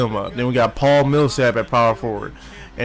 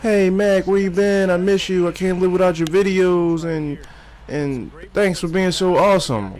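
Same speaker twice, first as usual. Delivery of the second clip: fan voice; 6 semitones higher than usual. Retold or imitated. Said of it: "I ain't getting no damn thank yous".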